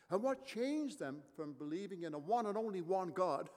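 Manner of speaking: ordinary talk, nothing marked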